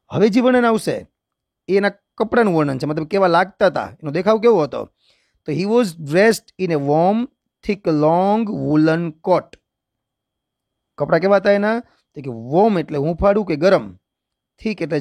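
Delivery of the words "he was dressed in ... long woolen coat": slow, measured English reading; textbook read-aloud. Shown as a demonstration. Teacher reading a description of Alibhai to students, slow read-aloud. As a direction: read out each phrase slowly, pausing between.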